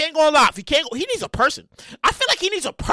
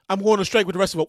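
a touch lower, calm demand; the writer self stating terms; low writer alter ego; 7 semitones lower, faster than usual. Pretend. Writer alter ego announcing strike to host, lower. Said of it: "the two alter egos, they battle".

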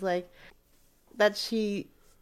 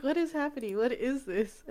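higher, lightly acted bewilderment; imitated surprise; 4 semitones higher, 3 dB quieter than usual. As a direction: quote her surprise, pitch raised then easing. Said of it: "she was even surprised".

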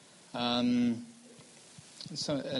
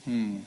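thinking hmm; 2 semitones lower than usual. Real, not acted. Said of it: "Good question".

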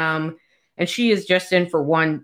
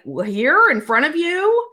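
prim lady voice; 8 semitones higher than usual. Retold or imitated. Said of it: "She's like".

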